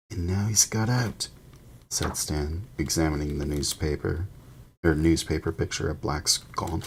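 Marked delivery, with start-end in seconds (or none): 0.1-1.3 lightly voiced gossiping bus conductor; a hint of eager young conductor; Stan's voice. Stan gossiping to Harry on the bus, lightly voiced.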